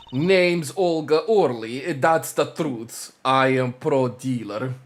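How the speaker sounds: put-on thick Russian accent. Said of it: "I'm still gonna do the Russian accent".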